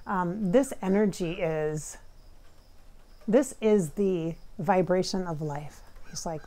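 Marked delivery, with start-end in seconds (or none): 0.5-5.8 slow guru quote. Retold or imitated. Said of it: "He said".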